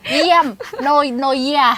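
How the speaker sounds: slowly says เยี่ยม, stopping to fix the sound; fixing how เยี่ยม sounds; slow correction. Shown as a demonstration. Host correcting her co-host's word, slowly. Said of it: "ไม่ใช่เยี่ยมมาก".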